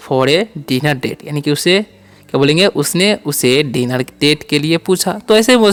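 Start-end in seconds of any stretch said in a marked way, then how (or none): 0.1-1.3 very slow, word by word English; slow dictation. Shown as a demonstration. Teacher to students, slow dictation. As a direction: spell it out slowly for the class.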